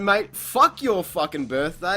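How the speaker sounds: blowing up. Retold or imitated. Telling off the classmate in a silent art room, furious. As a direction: let him have it, word by word. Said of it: "I just blew up".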